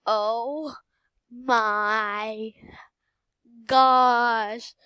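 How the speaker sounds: drawn-out amazement. Real, not acted. Player amazed at the million, word-by-word building exclamation. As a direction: pause between words, landing hard on the last. Overjoyed at the money.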